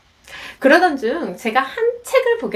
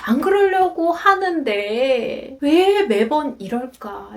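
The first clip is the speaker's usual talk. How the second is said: anguished self-reproach; slower than usual. Retold or imitated. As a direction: sigh and reproach yourself, dragging the last words. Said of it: "스스로 굉장히 괴로워지더라고요".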